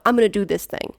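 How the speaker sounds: mildly aggressive, assertive statement; blunt, pushy English ordering. Shown as a demonstration. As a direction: announce it as a done deal. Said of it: "aggressive, like".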